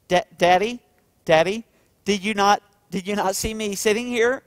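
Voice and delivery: lightly voiced child asking why Daddy walked past; confused little daughter. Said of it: "she's going".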